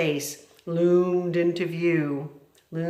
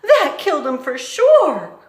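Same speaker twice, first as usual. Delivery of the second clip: high, loud with a laugh; dim Mig; 11 semitones higher, 11 dB louder than usual. Acted. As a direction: say it with dim satisfaction. Mig about mouse.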